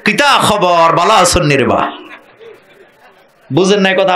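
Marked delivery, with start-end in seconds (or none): 0.0-1.9 lightly voiced Sylheti greeting; a hint of Sylheti accent, friendly. Preacher mimics a Sylheti villager greeting, light Sylheti accent. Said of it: "সিলেটে যাইবেন, বলবে".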